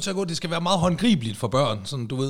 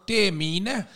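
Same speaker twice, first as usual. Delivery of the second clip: put-on a higher kid's protest; indignant child; 5 semitones higher, slower than usual. Child claiming the shoes, higher and indignant. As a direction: whine it like a little girl.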